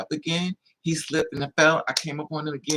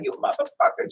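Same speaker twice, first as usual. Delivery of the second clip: put-on much higher, squealing furious girlfriend voice; girlfriend cursing. Girlfriend cursing the guy, high and furious. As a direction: play the girlfriend ready to jump in.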